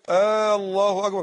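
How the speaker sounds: «الله أكبر» with a long questioning «آ» at the start; wrong takbeer. Shown as a demonstration. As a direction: stretch the opening hamza of «الله». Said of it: "لا تدخل الهمزة الاستفهامية على لفظ الجلالة". («الله أكبر» بمدّ الهمزة الأولى خطأً)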